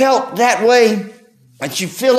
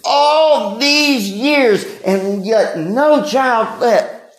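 slow mournful lament; 3 semitones higher, much slower than usual. Retold or imitated. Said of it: "And Hannah cries".

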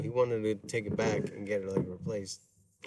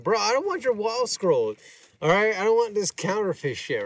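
mock brush-off; 9 semitones higher than usual. Retold brush-off to seller.

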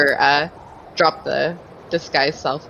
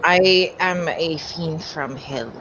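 fiend from hell; slower than usual. Pretend. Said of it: "Am I doing good?".

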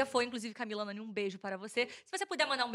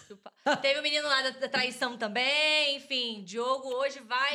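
mouth full; slower than usual. Real, not acted. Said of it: "tu tá falando de boca cheia".

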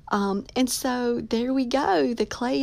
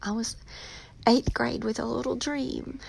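real tearful holding back, voice softening; choked up with gratitude, pausing to hold it together; trying not to cry; 2 semitones higher than usual. Real, not acted. Author telling listeners about her lifelong dream, trying not to cry. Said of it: "I'm trying not to cry".

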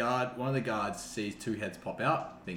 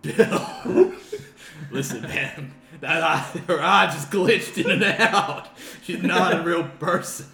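frantic guard; 8 semitones higher, 9 dB louder, slower than usual. Acted. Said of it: "He's like".

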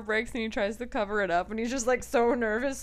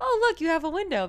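mock snide coworker; 9 semitones higher, 5 dB louder, faster than usual. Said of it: "he goes".

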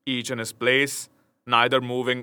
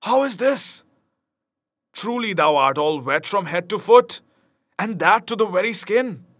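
Will's amazement; 7 semitones higher than usual. A narrator's reading. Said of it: "cried Will".

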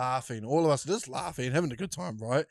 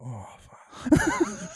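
laughing groan; 10 semitones higher than usual. Retold or imitated. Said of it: "We're like".

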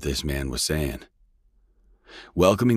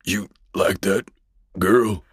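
through gritted teeth; 5 semitones higher, 3 dB louder, slower than usual. A narrator's reading. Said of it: "spoke through gritted teeth".

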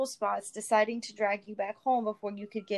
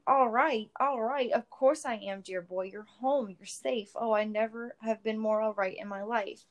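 tearful joy; 3 dB louder than usual. Acted. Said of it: "his eyes shone with tears".

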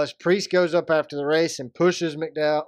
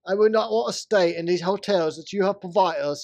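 a lightly put-on Canadian accent; hint of a Canadian accent; mock Canadian accent; 2 semitones higher, 3 dB louder than usual. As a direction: play at sounding Canadian, barely changed. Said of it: "I'm using my Canadian voice".

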